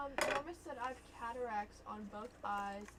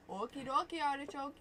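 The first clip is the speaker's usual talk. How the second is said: lightly imitated Irish lilt, a little raised; Irish-style accent; 4 semitones higher, 5 dB louder than usual. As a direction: have a playful go at Irish. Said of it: "That's how they say it".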